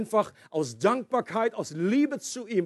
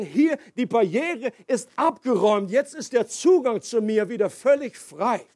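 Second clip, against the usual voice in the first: joyful God; 3 semitones higher than usual. Acted. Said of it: "um zu sagen".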